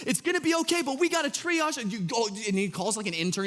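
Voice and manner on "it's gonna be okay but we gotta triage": a hint of a calm ER doctor. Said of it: "there's the E R doc".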